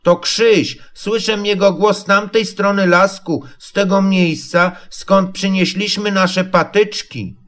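high little piglet voice; sustained high-pitched creature voice; Prosiaczek. A narrator's reading. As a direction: pipe up as a small eager animal. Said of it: "powiedział Prosiaczek, strzygąc uszkiem".

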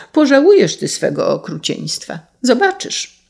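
indignant warning, leaping high at the end; calling out a threat. A narrator's reading. Sparrow vows revenge on the carter, crying out. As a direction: threaten him in reproach. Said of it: "zawołał".

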